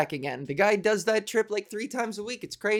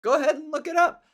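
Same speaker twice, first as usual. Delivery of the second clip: higher, louder smug know-it-all imitation; smug mock friend; 9 semitones higher, 5 dB louder, faster than usual. Mocking the friend who spoiled the answer, higher and louder. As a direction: lord it over them, mockingly. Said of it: "sure enough".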